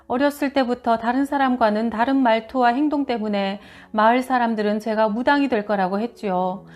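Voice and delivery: ordinary delivery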